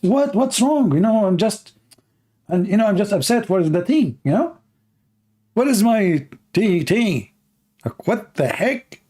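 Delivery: high, urgent pleading at the foreigner; panicked girls. Retold or imitated. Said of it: "they say".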